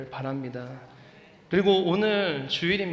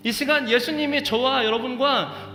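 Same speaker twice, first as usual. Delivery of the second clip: louder, higher impassioned sermon climax; preaching at full force; 8 semitones higher, 5 dB louder than usual. Acted. Pastor urging the congregation toward healing, fervent louder preaching. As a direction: build to a fervent peak over music.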